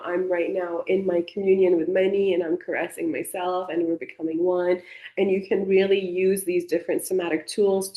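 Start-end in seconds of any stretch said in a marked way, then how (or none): 0.0-4.8 gently. Retold or imitated. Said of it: "you can just gently be like".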